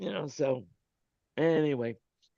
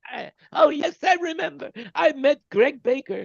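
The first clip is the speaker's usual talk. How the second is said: higher, dreamy mock trance voice; mock hypnotized recall; 8 semitones higher, 3 dB louder than usual. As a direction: play at being hypnotized, suddenly remembering. Pretends to recall under hypnosis.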